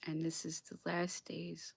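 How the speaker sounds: slow, whispered gravity; solemn whisper. Real, not acted. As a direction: hush as if sharing something sacred. Introducing the final days.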